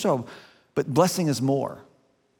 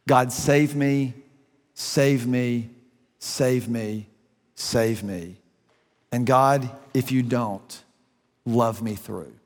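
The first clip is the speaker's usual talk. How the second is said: desperate whispered-down plea; pleading prayer, fading; 3 semitones lower, slower than usual. Retold or imitated. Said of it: "She says".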